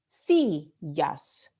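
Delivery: "Sillas" split into SI, llas; syllable by syllable. Shown as a demonstration. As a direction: break "Sillas" into two beats, stressing SI. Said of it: "penúltima sílaba".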